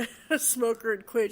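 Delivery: laughing through the words. Real, not acted. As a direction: let a nervous laugh break into the line. Nervous laughter while retelling.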